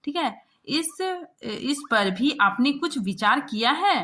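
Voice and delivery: loud, sharp demanding questions; scolding. Acted. Chief correspondent grilling the reporter, loud scolding. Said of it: "मतलब वो उसको डांट रहा है".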